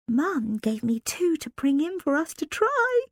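hushed, hoarse schoolgirl whisper. Acted. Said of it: "Lilia said in a hoarse whisper".

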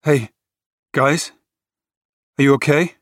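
a hint of a frightened boy calling for his friends; like an eight-year-old. A narrator's reading. Carter checks on his friends in the wreck, small childlike voice. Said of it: "He sounded like an eight-year-old".

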